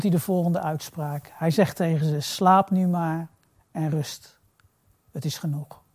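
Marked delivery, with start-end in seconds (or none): 2.2-5.8 tender, slowed-down comfort; gentle, soothing. Acted. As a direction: ease them into rest, unhurried. Jesus gently tells disciples to sleep.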